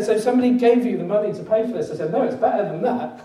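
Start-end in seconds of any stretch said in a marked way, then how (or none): 0.0-1.9 amazed question. Retold or imitated. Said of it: "he said".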